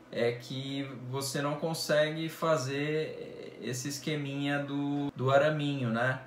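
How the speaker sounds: muffled through cloth balaclava; speaking with mouth covered; through a face mask. Real, not acted. Seen 1: Balaclava fabric covers mouth in every frame; reference frames show it unworn.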